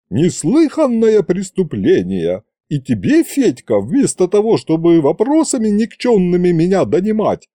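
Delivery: high, folksy granny's tirade; old aunt haranguing Fedya, pitched high; indignant old woman. Acted. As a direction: rant like a wronged village aunt. Yaguta's long tirade.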